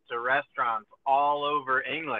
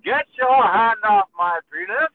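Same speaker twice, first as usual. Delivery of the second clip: higher, louder indignant shout at the cop; retelling a viral arrest clip, hammed-up yell; mock outraged yell; 8 semitones higher, 7 dB louder than usual. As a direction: yell it like he's being manhandled. Retold arrest, man yelling at cop.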